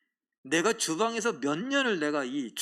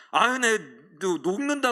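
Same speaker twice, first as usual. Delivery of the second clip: touched exclamation; 5 dB louder than usual. Retold or imitated. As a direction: melt with gratitude out loud. Exclaiming at deacon sweeping.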